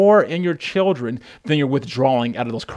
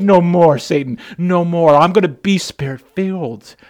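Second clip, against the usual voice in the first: firm and raised, rebuking Satan; defiant declaration; 4 semitones higher, 5 dB louder than usual. Acted. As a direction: plant your feet and refuse. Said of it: "the stopgap that says".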